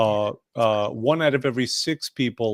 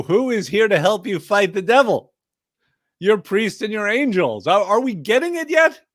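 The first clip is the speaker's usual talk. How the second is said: rising preacher fervor; 7 semitones higher, 6 dB louder than usual. Acted. Preaching up the devil fight.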